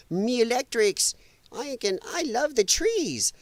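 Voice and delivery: a lightly voiced mocking greenie, slow; a hint of a whiny activist, slowed down; mock lefty. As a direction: parody a smug tree-lover, drawn out. Mocking lefties' voice.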